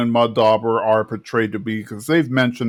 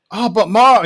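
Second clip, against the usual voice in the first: put-on high, louder reluctant kid whine; whiny Bobby; 9 semitones higher, 4 dB louder than usual. Son protests to his mother, a high reluctant whine. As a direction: whine it like a boy dodging a chore. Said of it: "and Bobby's like".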